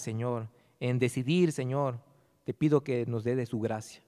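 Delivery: earnest pastoral prayer, steady and reverent. Acted. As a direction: pray over the congregation humbly. Pastor leads closing prayer.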